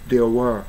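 "were" with the r left silent; non-rhotic "were"; British-style were. Shown as a demonstration. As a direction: say "were" as "wuh". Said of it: "ブリティッシュっぽく".

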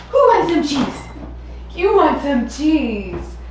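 high sing-song pet talk; talking to a dog. Real, not acted. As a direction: coo at the dogs like babies. Talking to the dogs.

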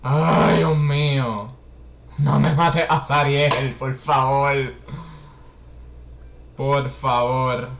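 loud desperate begging; pleading panic. Real, not acted. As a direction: beg loudly, panicked. Begging game not to kill.

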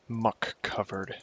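"Muck covered" drawn out word by word; slow, deliberate "Muck covered". Shown as a demonstration. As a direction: spell out "Muck covered" slowly. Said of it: "Try saying that three times fast".

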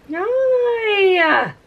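squeaky hi. Real, not acted. Vlogger greeting her paint, squeaky high hi.

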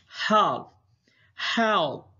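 high frightened cry for help. A narrator's reading. Trapped geese crying for help, frightened. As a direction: call out in panic. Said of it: "cried the geese".

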